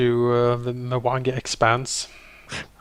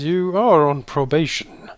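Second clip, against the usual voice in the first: stern warning. Acted. Character warns a freed creature on probation, sternly. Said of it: "at the creature sternly and says".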